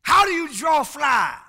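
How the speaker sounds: put-on old folk saying. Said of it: "they would have put it like this".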